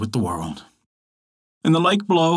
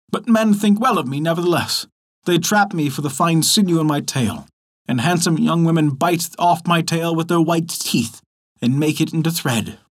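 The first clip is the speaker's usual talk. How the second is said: boastful muskrat, a bit higher; lightly voiced proud muskrat; 4 semitones higher than usual.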